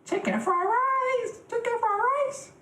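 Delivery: very high, squealed caricature Asian accent; mock Asian accent. Shown as a demonstration. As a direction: call it out in a hammed-up Asian accent. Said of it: "damn, Asian accent is kinda hard".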